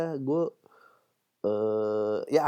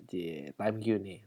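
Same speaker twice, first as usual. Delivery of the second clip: softer, slow sly tease; quiet teasing; 6 semitones lower, 7 dB quieter, slower than usual. Real, not acted. Host teasing himself at the Q segment, soft and slow. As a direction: tease himself under his breath.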